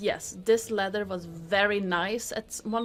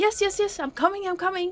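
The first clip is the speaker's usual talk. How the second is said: very high, clear, ringing calling voice; 11 semitones higher, 3 dB louder than usual. From inside, a voice calls to someone walking through the door; clear ringing voice. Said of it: "clear voice ring out with".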